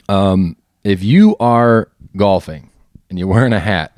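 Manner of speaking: hoarse, strained voice; losing voice. Real, not acted. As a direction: talk with a worn-out voice. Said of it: "I'm losing my voice".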